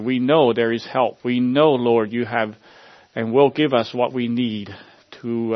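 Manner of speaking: earnest congregational prayer, addressing the Lord. Acted. Pastor praying over his congregation, earnest prayer voice. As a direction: pray aloud for the church, pleading and sincere.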